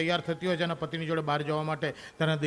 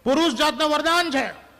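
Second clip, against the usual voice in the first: loud punchline; 7 semitones higher, 6 dB louder than usual. Real, not acted. Comedian hammering the final joke to the audience, loud.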